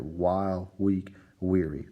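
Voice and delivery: "While, weak, weary" spaced out, each opening W clear; stressed W sounds. Shown as a demonstration. Teacher points out alliteration, each W in "While, weak, weary" set apart. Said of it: "The beginning of the W sound at the beginning of those words".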